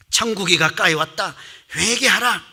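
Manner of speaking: lightly voiced prophet's proclamation; preaching prophet. 세례 요한의 회개 선포를 재연. (회개를 외치는 선지자 흉내)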